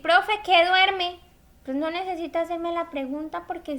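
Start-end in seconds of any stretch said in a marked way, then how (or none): 0.0-1.2 higher, louder, slow mock question; puzzled student. Student asking the teacher, mock puzzled, higher and louder. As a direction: ham up the student who asks too much. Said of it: "usted no me va a decir".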